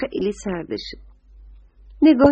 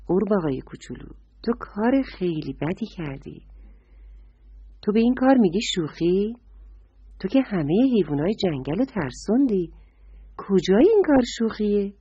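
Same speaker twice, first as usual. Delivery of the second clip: softer, mildly hurt scolding; a touch of sad reproach; upset deer; 4 dB quieter than usual. Acted. Deer scolds the frog, softer and mildly upset. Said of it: "آهو خانم خیلی ناراحت شد".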